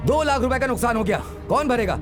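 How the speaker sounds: high, quick, indignant demand; angry demand. Acted. Man demanding who pays for the damage, angry.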